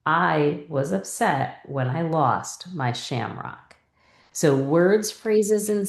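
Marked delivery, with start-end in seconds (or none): 0.1-3.8 smooth whole read. Shown as a demonstration. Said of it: "now read the whole thing".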